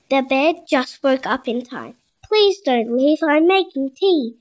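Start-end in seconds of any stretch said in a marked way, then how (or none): 2.2-4.3 slightly raised voice, pleading; a touch of a shout; mild storybook shout. Acted. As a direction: call out lightly as the bear. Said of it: "shouted the bear".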